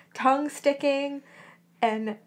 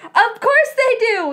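high, loud, drawn-out shout; theatrical full-voiced outburst; indignant yell; 11 semitones higher, 9 dB louder than usual. A narrator's reading. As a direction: yell it in outraged correction. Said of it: "he yelled".

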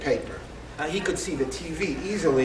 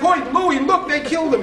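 yelling grandmother; 9 semitones higher, 4 dB louder than usual. Retold or imitated.

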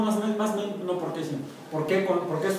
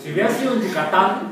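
laughing; 5 semitones higher, 7 dB louder than usual. Real, not acted. Teacher jokes, laughing.

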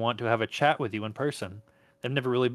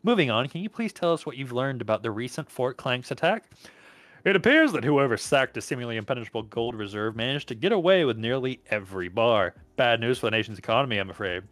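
measured newscaster read; news report voice. Acted.

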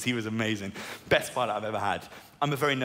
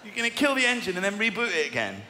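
incredulous; 7 semitones higher than usual. Retold or imitated. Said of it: "I was like".

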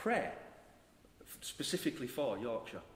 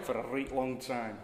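put-on Yorkshire accent. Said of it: "In a Yorkshire accent".

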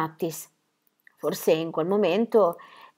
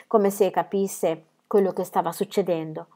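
plain reading voice

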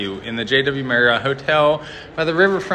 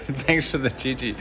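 softer, laughing thank-you; laughing redo; 5 dB quieter than usual. Real, not acted. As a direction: redo it calmly through a chuckle. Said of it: "I was trying not to have a".

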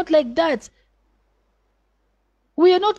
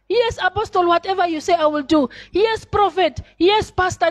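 mock pious wife; 6 semitones higher than usual. Mocking pious wife at church.

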